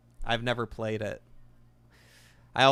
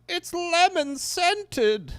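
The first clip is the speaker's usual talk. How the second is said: very high, slow, loud sniffing tone; very high slow cartoon voice; cartoon villain; 5 dB louder, much slower than usual. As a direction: announce the discovery in a high squeak. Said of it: "he's like".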